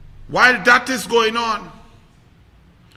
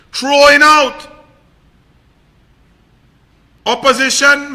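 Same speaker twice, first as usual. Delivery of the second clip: angry rant; 5 dB louder than usual. Real, not acted. Indignant rant against the government.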